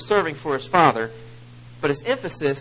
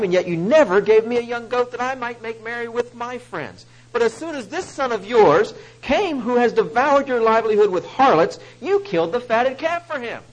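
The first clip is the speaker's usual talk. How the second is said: high, loud, bitter complaint; angry resentment; 8 semitones higher, 8 dB louder than usual. Acted. Older brother resents his father, bitter angry complaint. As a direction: spit out years of grievance at his father. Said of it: "Can you hear the anger and resentment in his voice?".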